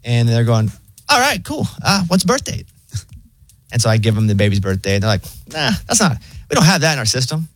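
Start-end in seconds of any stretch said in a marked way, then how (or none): 1.1-2.7 much higher, breezy mock AI operator; casual robot who doesn't care; chill robot voice. Mocking the pharmacy AI asking birth date, high and breezy. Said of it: "so chill". 5.5-7.5 lightly raised, laid-back robot; a hint of a shrugging AI; chill robot voice. Pharmacy AI denying the record, lightly voiced. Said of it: "so chill".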